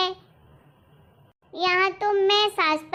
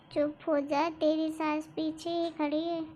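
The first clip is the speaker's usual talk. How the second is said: hushed warning; 6 dB quieter than usual. Acted. Warning friend mother-in-law overhears.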